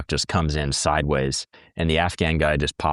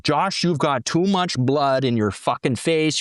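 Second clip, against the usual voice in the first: raised pitch, slow mock yelling, Wisconsin-flavoured senior corpsman; hamming up the boss barking orders, higher and slower; 7 semitones higher than usual. Senior corpsman scolding Josh for bloody face, mock yell. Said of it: "He's just yelling at me like".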